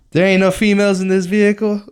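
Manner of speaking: high mock cop asking. Campus cop repeating her question, high mock voice. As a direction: pitch it up like the officer doubting. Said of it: "cop repeats the question".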